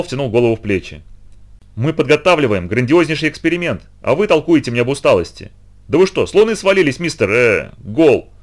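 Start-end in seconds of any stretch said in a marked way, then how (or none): 1.8-8.3 ranting boss. Acted. Boss rants at worker.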